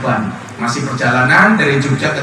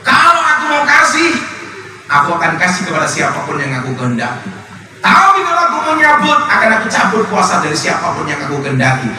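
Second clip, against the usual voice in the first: voice of God; 2 semitones higher than usual. Acted. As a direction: speak as God humbling a proud man. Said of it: "kata Allah".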